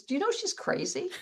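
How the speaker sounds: laughing through the priest's blunt question; a laughing retold priest. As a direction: quote him while cracking up.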